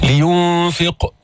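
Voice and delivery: "لينفق" with the qaf bounced in qalqala; "لينفق" with a heavy bouncing qaf. Shown as a demonstration. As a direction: echo the final qaf of "لينفق". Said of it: "جيب القلقلة".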